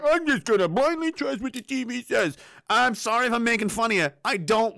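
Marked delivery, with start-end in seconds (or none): 0.0-2.4 blind TV truster. Retold or imitated. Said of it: "And you're like".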